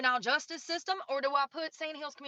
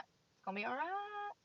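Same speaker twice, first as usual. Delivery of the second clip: softer, higher self-reassurance; softer, higher calming whisper to himself; soothing himself; 7 semitones higher, 8 dB quieter than usual. Real, not acted. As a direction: talk yourself down gently. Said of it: "Calm down".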